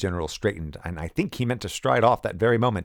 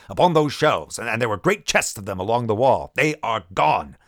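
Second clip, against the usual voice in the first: loud grievance; 3 semitones higher, 5 dB louder than usual. Acted. General describing missing bottles.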